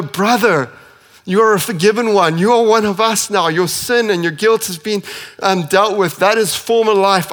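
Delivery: overflowing thanks, pressing forward; fervent gratitude. Retold or imitated. Ananias telling Paul he is forgiven, fervently.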